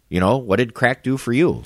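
laughing shout of a comeback; retorting shout. Retold or imitated. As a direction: fire back, laughing as you shout. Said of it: "I said".

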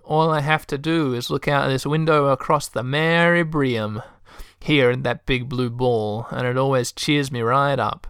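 lightly voiced Texan receptionist; chatty Texan lady telling her habit; Texan accent. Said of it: "a Texan accent".

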